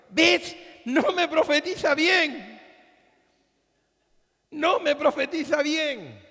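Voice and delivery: king complaining to his ally, high and indignant. Retold or imitated. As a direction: stamp it out like an offended king. Ahab complaining to Jehoshaphat.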